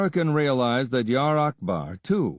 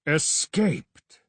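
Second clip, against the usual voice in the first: surprised; 5 semitones higher than usual. Acted. Vizier hears shocking news.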